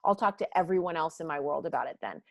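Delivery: fast, sarcastic passive-aggressive jabs; a snide "oh really" with a sarcastic "awesome". Retold or imitated. A hurt employee sniping sarcastically, passive aggressive. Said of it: "passive aggressive".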